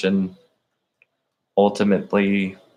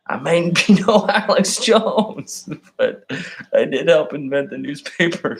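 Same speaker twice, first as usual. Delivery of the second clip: mock pundit voice; 7 semitones higher than usual. Soundbite mocking Alex Jones style.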